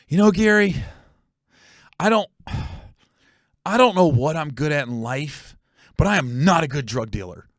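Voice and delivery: imitating a brother's heartfelt realization, halting between phrases; earnest, halting confession. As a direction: confess it haltingly, as a sudden epiphany. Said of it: "It was just the way he said it".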